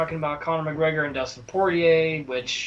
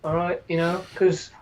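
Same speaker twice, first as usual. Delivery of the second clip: mock Birmingham accent. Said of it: "he's Leon Edwards because he's like".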